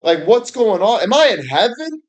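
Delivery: rising mock amazement, lightly voiced; bewildered onlookers. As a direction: play a stunned bystander wondering if it's heaven. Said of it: "they're like".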